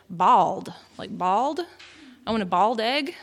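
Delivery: "bald" standing in for "boiled"; "bald" with the OY of boiled flattened away; Texan mispronunciation. Shown as a demonstration. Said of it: "those mispronunciations".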